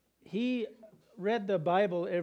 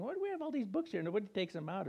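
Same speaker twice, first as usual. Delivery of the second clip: incredulous aside; 3 semitones higher, 4 dB quieter, faster than usual. Retold or imitated. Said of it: "and I was saying".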